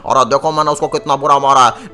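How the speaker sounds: boasting in a lightly put-on heavy voice. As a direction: giant hero with a heavy voice. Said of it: "मेरी आवाज़ भारी हो गई".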